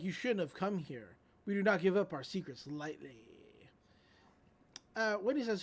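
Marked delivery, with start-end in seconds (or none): 0.0-3.2 put-on lightly creepy British villain accent; a touch of creepy British cultist. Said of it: "what's up with your creepy British accent".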